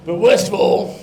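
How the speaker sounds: disappointed teacher hammering every line home; scolding teacher. Acted. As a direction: lay on each disappointment heavily. Inflatable teacher scolds the boy.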